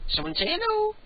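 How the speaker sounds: squeaky high voice coaxing a cat. Real, not acted. Host coaxing his cat to speak, high and squeaky. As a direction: pitch way up to coax a pet.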